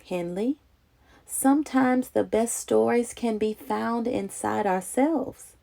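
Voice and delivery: soft, tender motherly comfort; gently, like tucking a child in; a soft, soothing mother's reassurance; warm. Acted. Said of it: "With a voice as warm as rolls from an oven".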